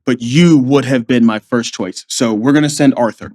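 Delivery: low, measured imitation of a colonel; commanding officer. Colonel tells Davis he can't trust him, grave imitation. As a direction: deliver the verdict as a low-voiced superior. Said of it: "the C O called me in".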